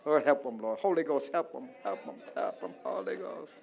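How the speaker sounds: low, softening plea to God; murmured prayer. Acted. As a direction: pray under your breath for the congregation. Prays aside over congregation.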